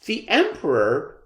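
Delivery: put-on high child's call, slowing at the end; child calling to his father in the crowd. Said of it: "a young child called out".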